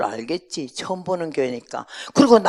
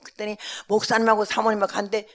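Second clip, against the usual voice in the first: ordinary talk, nothing marked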